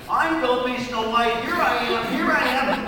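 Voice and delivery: 1 mild demo shout. Shown as a demonstration. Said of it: "you'll jump up and scream back".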